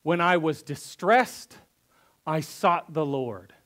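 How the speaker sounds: slow, weighty reading of the psalm; solemn scripture reading. Acted. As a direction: read each line slowly and gravely. Reads psalm slowly in church.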